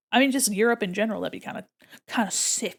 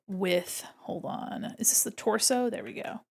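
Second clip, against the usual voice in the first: whisper; 7 dB quieter than usual. Real, not acted. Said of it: "whispered while drawing".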